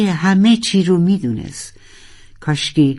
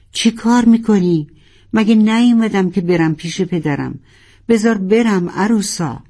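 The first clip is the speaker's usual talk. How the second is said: upset protest; 4 semitones higher than usual. Acted. Protesting being held back.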